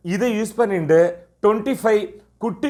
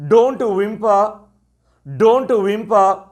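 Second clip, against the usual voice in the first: slow teacher model phrase; 3 semitones higher, much slower than usual. Shown as a demonstration. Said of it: "அல்லது".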